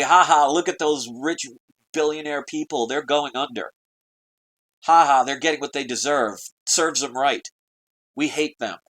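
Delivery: hammed-up "ha ha" mockery of the rich; mocking gloat. Jealous small-boat folk jeering at the sinking Titanic, mock laughing. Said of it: "all those little boats start laughing".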